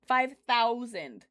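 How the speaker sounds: slow, stretched disbelief; surprised. Real, not acted. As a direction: drag it out in amazement. Reacting to chat's huge class.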